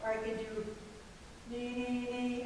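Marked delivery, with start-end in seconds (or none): 1.5-2.4 nee placed right up front; forward nee. Shown as a demonstration. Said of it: "I can be right up front".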